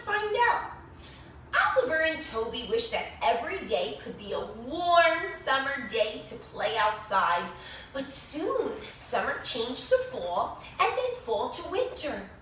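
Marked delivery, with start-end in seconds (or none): 1.8-12.3 lively storybook narration with bright rises; animated read-aloud for a class; reading to children. A narrator's reading. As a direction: read it like story time for little kids. Reads picture book to children.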